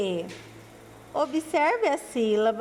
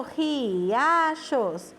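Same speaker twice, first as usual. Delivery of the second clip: drawn-out word. Shown as a demonstration. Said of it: "Quantas sílabas tem".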